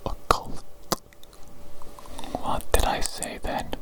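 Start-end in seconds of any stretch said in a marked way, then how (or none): 0.1-0.6 one word in a voiceless whisper; whispered test word. Acted. Examiner giving a hearing test word, whispering. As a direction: whisper the word into their ear. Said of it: "I'm going to whisper a word".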